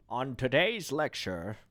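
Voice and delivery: slow lecturer voice. Pretend. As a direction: read it like a lecturer. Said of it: "I don't know what voice that is".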